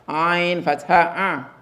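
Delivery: slow, drawn-out model recitation; teacher drilling slowly; slow spelling drill. Shown as a demonstration. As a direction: spell it slowly for the class to repeat. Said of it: "you spell it to me as ayn fatha".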